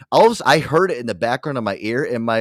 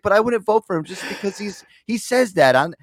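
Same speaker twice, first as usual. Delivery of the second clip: much higher, imitating his mom indignantly; 9 semitones higher than usual. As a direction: mom offended on his behalf. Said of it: "She's like".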